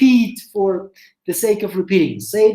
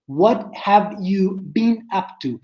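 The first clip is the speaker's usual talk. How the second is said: slow drill; slower than usual. Shown as a demonstration. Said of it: "por más rápido que lo digan".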